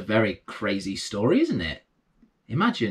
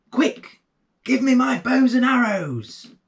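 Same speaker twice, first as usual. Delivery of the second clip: shouting; 13 semitones higher than usual. A narrator's reading. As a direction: yell for the weapons in a hurry. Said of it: "He shouted to his wife".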